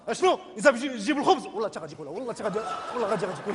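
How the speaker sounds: mildly annoyed father. Retold or imitated. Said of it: "mon père quand il est un petit peu énervé".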